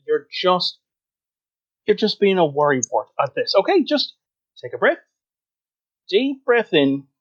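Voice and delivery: lightly acted brush-off of a worrier; dismissive reassurance. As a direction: talk down a fretting friend, in character. Second creature soothes the worried one.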